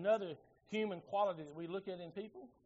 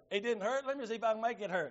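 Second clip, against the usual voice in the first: higher, quickened threat of a riled dad; angry father's threat; 4 semitones higher, 3 dB louder than usual. Retold or imitated. Dad answering his son's boast that it didn't hurt, mock-angry threat. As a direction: retell a dad's indignant comeback, pitched up.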